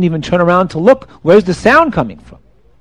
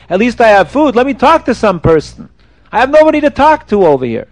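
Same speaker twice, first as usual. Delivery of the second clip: mild mock scream; 5 semitones higher, 3 dB louder than usual. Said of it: "he started screaming".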